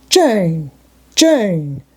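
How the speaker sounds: anguished, falling call of a name; bitter sadness. A narrator's reading. He calls to Jane as she refuses him, bitterly sad. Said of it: "in such an accent of bitter sadness".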